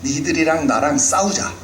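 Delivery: Goliath challenging Israel to single combat, taunting; Goliath's challenge. Retold or imitated. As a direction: dare them to a one-on-one fight. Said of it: "구 절에 뭐라고 말합니까".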